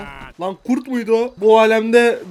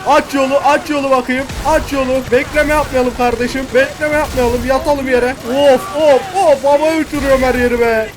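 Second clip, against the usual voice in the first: raised, urgent mock-gangster commands; excited robber yelling over the action; shouted orders; 3 semitones higher, 4 dB louder than usual. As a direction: push everyone along with a loud call. Shouting orders during game heist.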